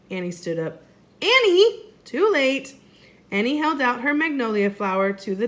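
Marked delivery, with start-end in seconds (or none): 1.2-2.8 high, loud alarmed call; shout. Acted. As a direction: yell to stop her. Jack calls out warning.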